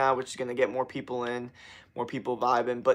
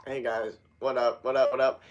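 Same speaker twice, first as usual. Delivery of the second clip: low-energy greeting; 2 semitones lower than usual. Retold or imitated. Streamer imitating his bad old streams, low-energy. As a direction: greet the stream with little push. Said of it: "angle that I have on the shitty".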